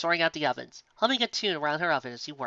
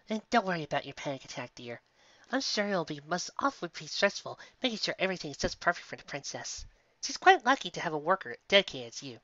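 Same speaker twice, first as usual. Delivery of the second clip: sweet baker mare; 3 semitones higher, 3 dB quieter than usual. Acted. Sweetie comforts Twilight.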